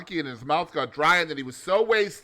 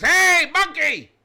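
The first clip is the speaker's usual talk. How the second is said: slow, high, loud squeaky call; crocodile voice; 12 semitones higher, 9 dB louder, slower than usual. Acted. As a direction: stretch it out in a cartoon squeal. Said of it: "He looks up and he says".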